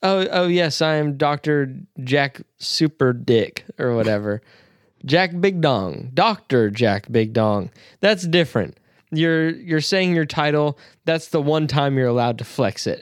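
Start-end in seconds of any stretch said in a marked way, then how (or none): 0.0-7.7 pompous self-introduction. Retold or imitated. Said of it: "If you introduce yourself as".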